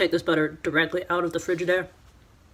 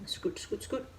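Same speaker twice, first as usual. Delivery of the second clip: whisper; 12 dB quieter, slower than usual. Real, not acted. Spreading butter playfully.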